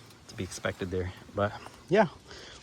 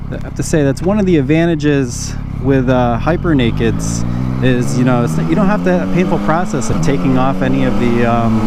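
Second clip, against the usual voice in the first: muffled helmet mic over engine; talking from inside a helmet; inside a motorcycle helmet. Real, not acted. Riding bike, talking in helmet.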